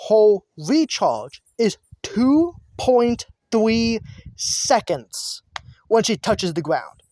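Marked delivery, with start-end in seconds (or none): 0.1-5.4 slow, spelling out the numbers; slow and deliberate. Shown as a demonstration. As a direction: say each number slowly and clearly. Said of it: "Let me say that again".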